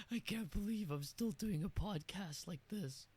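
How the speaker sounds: lost voice, hoarse and rough. Real, not acted. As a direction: talk through a hoarse throat. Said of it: "now I sound like this".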